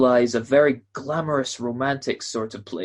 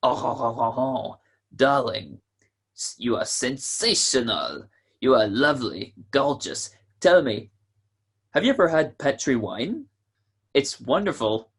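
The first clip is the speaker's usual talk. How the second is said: lightly put-on French accent, crooning to a girl; a hint of a French accent, romantic and hammed-up; mock French accent. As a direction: play a suave Frenchman wooing, in a French accent. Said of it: "whispering in my fine French accent".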